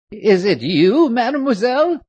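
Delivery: high, loud astonished cry; old nurse startled at her visitor; surprised exclaim. A narrator's reading. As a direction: gasp it out in disbelief. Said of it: "she exclaimed in great surprise".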